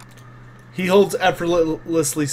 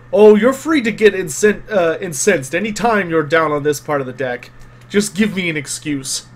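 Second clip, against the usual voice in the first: Gustav. Acted. Game master as Gustav daring a crewmate to push him, lightly growling. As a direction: dare them with a restrained growl. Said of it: "he growls and he goes".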